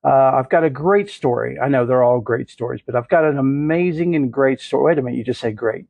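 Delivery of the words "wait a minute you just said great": fast, hushed self-interruption; arguing with himself. Acted. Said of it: "I'm arguing with myself".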